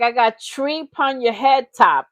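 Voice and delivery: mock Jamaican patois; lightly voiced Jamaican accent; imitated Jamaican accent. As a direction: quote him in a put-on Jamaican accent. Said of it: "put on a new accent".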